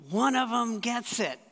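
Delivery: mild glad exclamation; delighted. Retold or imitated. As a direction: let the joy burst out a little. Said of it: "twinkle in Jesus' eye going".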